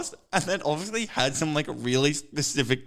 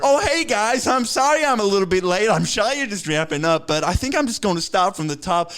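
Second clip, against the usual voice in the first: high, loud, chirpy mock caller; put-on caller voice, starting high and easing down; oblivious late joiner; 5 semitones higher, 3 dB louder than usual. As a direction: breeze in late with a raised, over-friendly voice. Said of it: "and he just goes".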